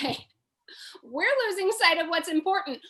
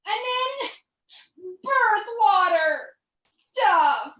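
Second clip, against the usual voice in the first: disgusted; 5 semitones higher than usual. Acted. Lying in fluid, disgusted.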